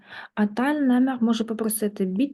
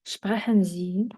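soft model phrase; slower than usual. Shown as a demonstration. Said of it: "говоріть повільніше".

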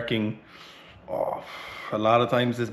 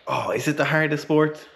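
mocking quote; 6 semitones higher than usual. Mocking weightlifters' question.

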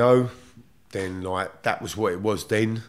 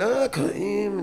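put-on Scottish accent; 13 semitones higher than usual. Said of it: "in that big, deep Scottish accent".

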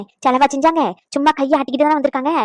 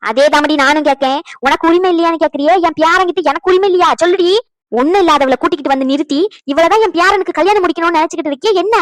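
loud, indignant challenge; angry scolding; 5 dB louder than usual. Acted. Elder confronting a relative over the wedding, angry scolding. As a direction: fire accusing questions at them.

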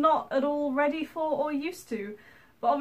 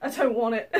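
flustered refusal. Retold or imitated. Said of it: "I instantly just start going".

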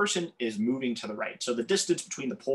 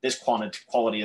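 halting, broken-off word attempts; real stumbling, words cut off midway; tongue-tied; 2 semitones lower than usual. Real, not acted. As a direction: trip over similar words and restart. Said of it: "I'm tongue-tied for some reason".

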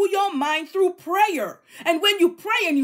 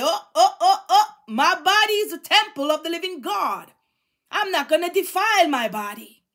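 mock cheerful vow with a laugh. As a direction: chuckle through the self-reminder. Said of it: "On your way, say".

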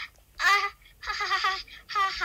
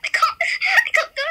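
laughing whine; 10 semitones higher, 7 dB louder than usual. Real, not acted. Stuck, laughing loudly.

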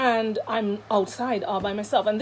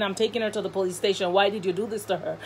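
quick retold quote; faster than usual. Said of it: "one is saying".

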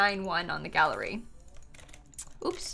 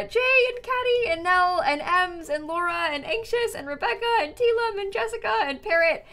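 reading subscriber names; 7 semitones higher than usual. Real, not acted. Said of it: "I'm gonna read some subs".

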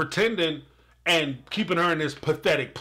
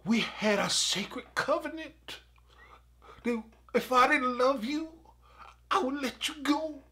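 hushed quote; 6 semitones higher, 6 dB quieter than usual. Retold or imitated. Cody quoted speaking tenderly to Robin.

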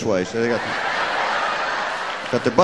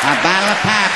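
higher, louder Northern accent; 6 semitones higher, 5 dB louder than usual. Shown as a demonstration. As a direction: hammer the put-on Northern accent, "pop" as "pap". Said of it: "doing a Northern accent".

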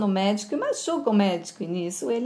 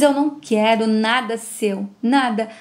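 angry refusal; 5 dB louder than usual. Acted. Boy rejects grandfather's gift.

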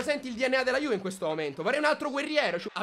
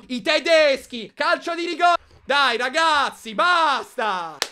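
angry protest; 5 dB louder, slower than usual. Real, not acted. Fan protesting penalty.

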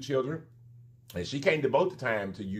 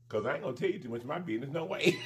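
laughing; 6 dB quieter, faster than usual. Real, not acted. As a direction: tease and crack up. Teasing, ends in laughing shout.

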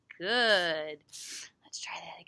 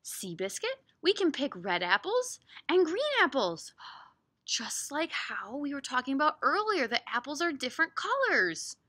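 put-on reading to children; 3 semitones higher, 5 dB louder than usual. Reads picture book aloud.

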